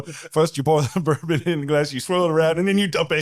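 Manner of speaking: high, laughing attempt at a British accent; shaky-grasp mock British-or-Scottish accent. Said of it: "I don't think I got the right accent".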